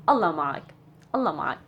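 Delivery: a gentle, kind send-off; calm sincere farewell; sincere blessing. Shown as a demonstration. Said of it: "all in this expression".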